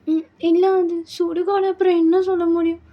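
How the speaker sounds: protesting bride. Acted. Bride insisting it is a graveyard, protesting.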